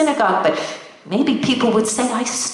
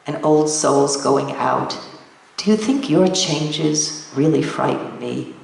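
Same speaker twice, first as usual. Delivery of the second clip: calm, wise reply; 6 semitones lower than usual. Acted. Old woman calmly answers demon.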